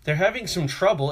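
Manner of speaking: lightly mocking a condescending boss. Supervisor mocking the worker to a colleague, condescending. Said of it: "really condescending way".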